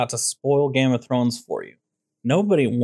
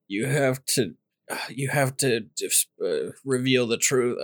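dying man; 4 dB quieter than usual. Acted. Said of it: "okay, a guy's dying".

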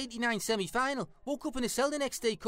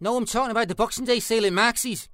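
sarcastic; 5 dB louder than usual. Acted. Sarcastic retort to obvious question.

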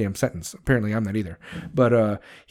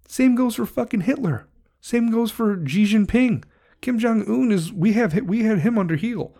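heated outburst; 8 semitones higher than usual. Real, not acted. Heated rant peak.

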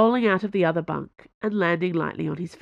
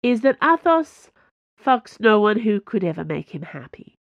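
higher and louder teasing; mocking, pushed up in pitch; 4 semitones higher, 4 dB louder than usual. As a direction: needle a friend playfully. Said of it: "said Porthos in a mocking voice".

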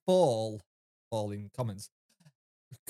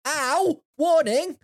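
high, louder mocking yelp; mock doctor exchange; 11 semitones higher, 4 dB louder, much slower than usual. Retelling the doctor popping his hip back, high mocking voice. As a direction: toss it off like a cheeky doctor.

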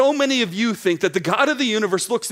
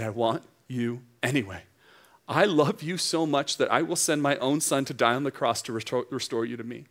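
much softer, lower, gentle; tender God voice; 5 semitones lower, 4 dB quieter than usual. Acted. Preacher voicing God welcoming the wanderer, tender. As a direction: reassure the wanderer softly. God's loving voice.

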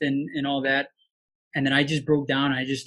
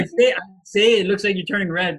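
laughing; 5 semitones higher, 7 dB louder than usual. Real, not acted. Teasing friend who is blushing.

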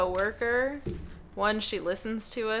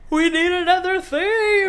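excited exclaim; 10 semitones higher, 10 dB louder than usual. Pretend. Mock exclaiming a request.

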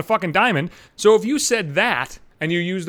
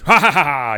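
mocking laugh; 3 semitones lower, 6 dB louder than usual. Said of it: "you got that little douchey humor right there".

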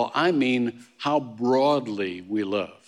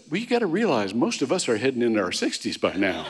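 laughing punchline; 4 semitones lower, faster than usual. Retold or imitated. Jordan's joking punchline.

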